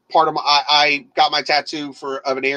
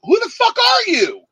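retold anger; 3 dB louder than usual. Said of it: "And I'm like".

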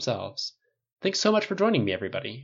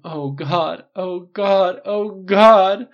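building, louder and higher mock moans; mock moaning; 9 semitones higher, 12 dB louder, much slower than usual. Stylist mimicking Tony moaning, mock building. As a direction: ham up the ecstasy. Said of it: "has you moaning".

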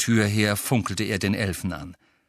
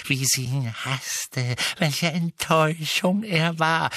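agitated elf muttering; 8 semitones higher than usual. A narrator's reading. Elf lamenting to his absent mistress, agitated. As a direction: mutter resentfully, then lament in a strained whine. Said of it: "murmelte er aufgeregt".

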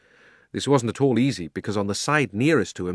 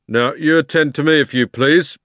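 loud, higher official voice; officious policeman; 6 semitones higher, 8 dB louder than usual. A narrator's reading. Policeman addressing Uncle Andrew, loud and officious. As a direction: demand attention as the law. Policeman takes charge of questioning.

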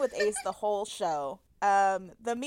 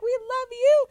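high, raised mock yell; imitated screaming; 12 semitones higher, 5 dB louder than usual. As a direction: yell the love back in imitation. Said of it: "all screaming at each other".

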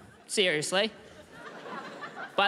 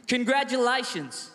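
sarcastic echo; 4 semitones higher than usual. Retold or imitated.

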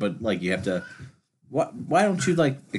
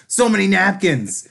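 imitating comedian; 11 semitones higher, 5 dB louder, slower than usual. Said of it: "He's like".

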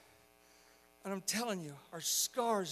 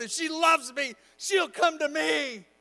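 put-on higher, louder girl's vow, slowing at the end; defiant insistence; 9 semitones higher, 9 dB louder, slower than usual. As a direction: dig in stubbornly, acting the hiding girl. Hiding girl insists through mother's calls.

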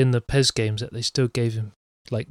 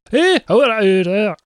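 put-on childish demand; 9 semitones higher, 6 dB louder, slower than usual. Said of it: "He just sort of went".

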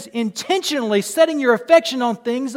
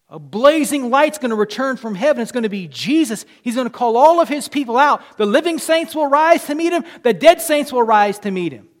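loud, rising sermon voice; a fervent preacher lifting the congregation; full-force preaching; 3 semitones higher, 7 dB louder than usual. Acted. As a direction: preach it out to the whole room. Preaching the return.

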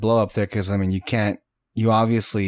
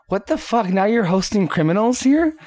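pitched way up, imitating an indignant mother; mock outrage; 8 semitones higher than usual. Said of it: "Lynn was like".

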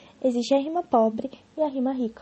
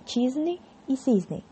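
slow example; 3 semitones higher, much slower than usual. Shown as a demonstration. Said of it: "Por exemplo".

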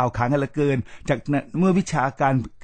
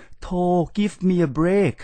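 higher, slowly drawn-out give me a break; exasperated brush-off; 5 semitones higher, much slower than usual. Acted. Scolding those who obsess over accent, exasperated and slow. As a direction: wave the idea away, fed up.

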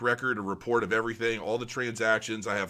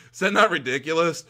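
laughing disbelief; 5 semitones higher, 6 dB louder than usual. Real, not acted.

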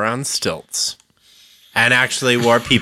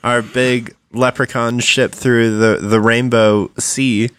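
put-on southern accent; 3 semitones lower than usual. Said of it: "Leprechauns with a southern accent".

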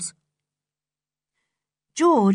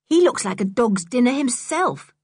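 slightly raised, mildly scornful remark; a touch of disgust; 4 semitones higher than usual. Acted. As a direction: grumble with mild disdain. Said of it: "said Dick in disgust".

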